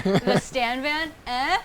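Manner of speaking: smug pun. Retold or imitated. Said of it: "She's like".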